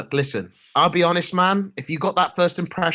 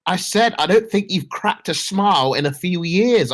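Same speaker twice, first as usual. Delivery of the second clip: slow repeat; slower than usual. Real, not acted.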